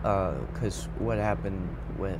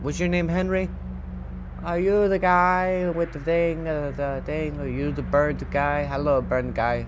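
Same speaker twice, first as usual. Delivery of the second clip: high, raised greeting, easing down; calling out; 5 semitones higher, 4 dB louder than usual. Pretend. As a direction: hail a stranger with rapid-fire questions, pitched up. Calling to burned man in game.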